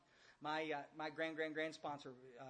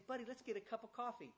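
higher, mildly softened friendly invitation; nice and quiet; 6 semitones higher than usual. Acted. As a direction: gently coax a buddy aside, pitched up. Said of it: "as nice as I can be and quiet".

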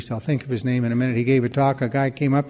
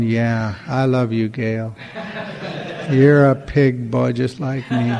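laughing; slower than usual. Retold or imitated. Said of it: "And I'm going".

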